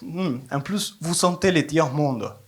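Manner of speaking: a lightly voiced old lady, slow; old lady sniffing. Old lady sniffing the immigrant, slow and sly.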